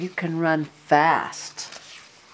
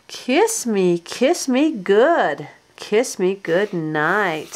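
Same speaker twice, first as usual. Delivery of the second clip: sing-song rhyme; slower than usual. A narrator's reading. Reading bedtime rhyme slowly.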